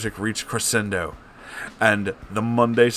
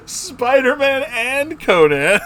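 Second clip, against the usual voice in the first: laughing; 5 dB louder, slower than usual. Real, not acted. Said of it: "laughing repeat".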